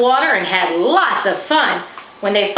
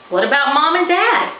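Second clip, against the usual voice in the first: put-on young girl voice; 8 semitones higher, 3 dB louder than usual. Girl character worries.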